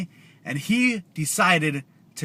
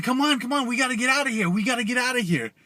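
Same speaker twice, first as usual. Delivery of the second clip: lightly voiced higher, urging child; urgent boy; 5 semitones higher, faster than usual. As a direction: hurry the others along in a slightly raised kid voice. Boy urging kids to escape.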